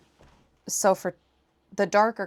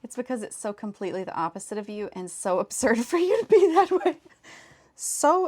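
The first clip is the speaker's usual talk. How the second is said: laughing; 2 semitones higher, 4 dB louder than usual. Real, not acted. Laughing while explaining.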